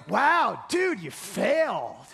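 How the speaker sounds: slow, let-down dude voice; mock disappointed. Pastor mimics a rebuke Jesus did not say, mild mock letdown. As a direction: drag it out like a letdown friend. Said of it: "Jesus did not say".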